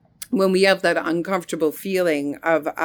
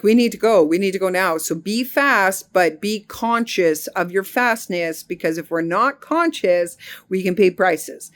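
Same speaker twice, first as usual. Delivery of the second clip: put-on urging kids. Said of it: "I was saying to my kids".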